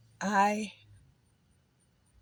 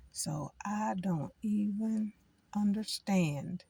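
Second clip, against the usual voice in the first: baffled; 2 semitones higher, much slower than usual. Real, not acted. Baffled by violence.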